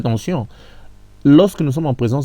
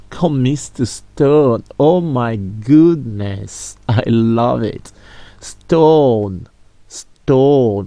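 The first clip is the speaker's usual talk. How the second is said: savoured; 5 dB louder, much slower than usual. Shown as a demonstration. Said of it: "teacher savours the word".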